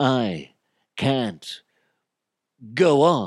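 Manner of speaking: hammy, very slow, big theatrical drawn-out delivery. Showing how he was talking, William Shatner-style delivery. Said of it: "Almost like William Shatner".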